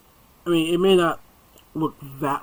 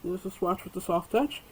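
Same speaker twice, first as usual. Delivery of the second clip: speaking through hiccups; words broken by small hiccups; 8 dB quieter than usual. Real, not acted. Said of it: "I got the hiccups".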